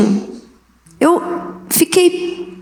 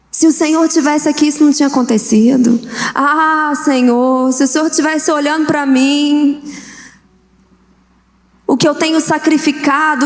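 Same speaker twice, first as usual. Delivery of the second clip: complaining believer. Retold or imitated. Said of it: "Quantos de nós já não sentimos isso?".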